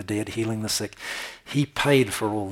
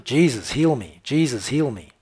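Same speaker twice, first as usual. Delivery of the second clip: crying out; 3 semitones higher, 4 dB louder than usual. Retold or imitated. Blind man crying out.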